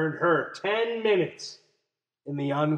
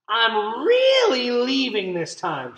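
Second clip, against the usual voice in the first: raised, higher call over the shoulder; 6 semitones higher, 3 dB louder than usual. A narrator's reading. Lily announcing she runs away, calling out. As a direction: call it out as a threat. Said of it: "she called".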